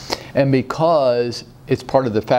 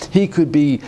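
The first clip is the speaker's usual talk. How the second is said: breathless after a long list; out of breath; 2 semitones higher than usual. Real, not acted. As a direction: run out of breath mid-sentence. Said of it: "I'm running out of breath".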